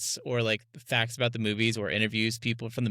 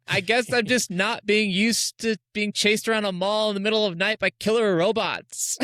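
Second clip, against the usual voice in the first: put-on high, loud panicked girl; mock freaking out; 9 semitones higher, 4 dB louder than usual. Mocking the movie's actress with a high panicked whine. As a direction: squeal it like a scared teen in a bad movie. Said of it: "she's freaking out".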